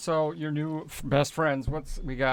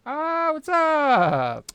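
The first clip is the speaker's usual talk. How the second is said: high, very slow, put-on greeting; cool drawn-out greeting; 12 semitones higher, 7 dB louder, much slower than usual. Character greeting Marcellus, high slow smooth drawl. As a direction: stretch the greeting like a smooth dude.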